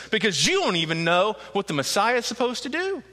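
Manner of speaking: lightly voiced sneer at Jesus; a hint of the defiant crowd. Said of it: "very defiant".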